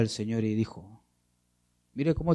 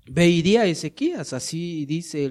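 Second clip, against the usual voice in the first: proclaiming God's word; 6 semitones higher, 6 dB louder than usual. Acted. God's word voiced in sermon.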